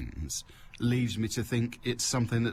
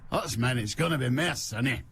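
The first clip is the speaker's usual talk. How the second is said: put-on amateur Scottish accent led in by Hoots Mon; pretend Scottish accent. Host retries the weather forecast, pretend Scottish accent. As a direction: have another go at faking Scottish. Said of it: "if I wanna do a Scottish accent".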